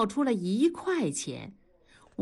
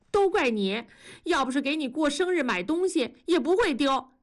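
撒娇埋怨; 7 semitones higher than usual. Acted. 妻子推着丈夫埋怨.

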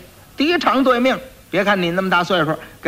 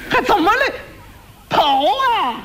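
panicked yell; slower than usual. Acted. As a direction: blurt it out in a fluster, shouting. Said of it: "他一着急，他嚷嚷出来了".

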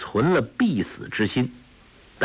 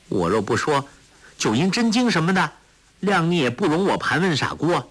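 lightly voiced girl, quick in places; clever, defiant young girl; 3 semitones higher than usual. Girl admitting her trick to the old villain, defiantly. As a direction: play a cheeky girl talking back.

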